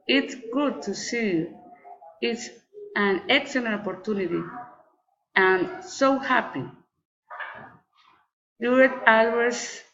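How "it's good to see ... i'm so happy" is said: exclamations easing down to the end of "happy"; falling exclamatory intonation. Shown as a demonstration. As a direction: let "see you" and "so happy" drop at the close. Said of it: "failing intonation".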